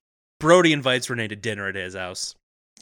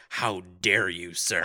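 mock indignation; 5 semitones lower, slower than usual. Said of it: "And to that, I say".

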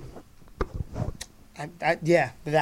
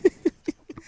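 a sudden high burst of laughter; 11 semitones higher than usual. Real, not acted. Laughing at the guest.

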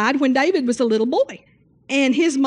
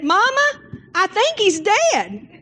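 put-on high, slow child's voice; a small boy telling his mama, scared; child's high call; little boy calling; 10 semitones higher, slower than usual.

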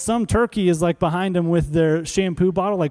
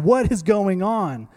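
mock exasperation; 2 semitones higher, slower than usual. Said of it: "He's, like, shaking the shower head".

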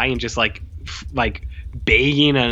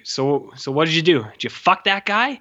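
rising, pitched-up mock interrogation; retold crude questioning; 4 semitones higher than usual. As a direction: fire off the question as the mock cop. Retells cop's crude questioning.

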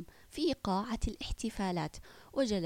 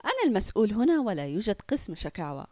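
sarcastic; 4 dB louder, faster than usual. Acted. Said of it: "أجاب ساخرا".

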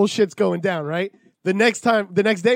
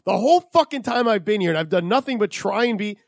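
retold telling off; 4 semitones higher than usual. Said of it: "I'm like".

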